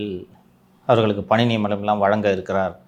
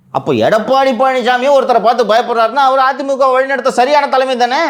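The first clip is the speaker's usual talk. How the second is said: sarcastic; 11 semitones higher, 4 dB louder than usual. Real, not acted. Sarcastic rhetorical jab at EPS.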